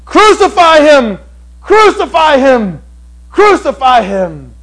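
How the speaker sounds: slow high shouts that fade on the last; crowd shouting. Retold or imitated. Preacher voicing the mob demanding crucifixion, loud fading chant. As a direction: chant it like an angry mob, dying down. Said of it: "where they'll be shouting".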